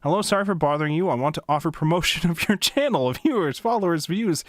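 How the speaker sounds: mock-enthusiastic spam reading; sarcastic reading. Shown as a demonstration. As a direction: read the bot message with fake excitement. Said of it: "I was gonna read it sarcastically".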